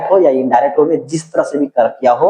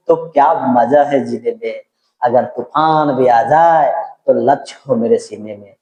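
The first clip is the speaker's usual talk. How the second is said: reciting shayari. Shown as a demonstration. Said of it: "एक motivation शायरी भी कहता हूँ".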